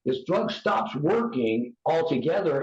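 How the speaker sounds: slow, deliberate stress on "stops working altogether"; emphatic warning. Real, not acted. Warning people who might use, slow and emphatic. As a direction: spell out "stops working altogether" slowly, word by word. Restates warning after "listen up.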